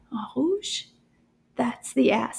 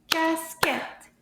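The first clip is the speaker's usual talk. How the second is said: "Casquette" in two separate beats, pitched higher; syllable by syllable; 4 semitones higher than usual. Shown as a demonstration. Teacher counting syllables with children, "Casquette" in two distinct beats. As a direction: count out "Casquette" as cas, then quette. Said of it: "How many syllables?".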